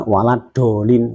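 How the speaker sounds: "waladolin" with a tongue-tip d; misplaced dhad. Shown as a demonstration. Teacher imitating a common misreading, tongue-tip d in "waladolin". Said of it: "sudah keluar dari makhrajnya".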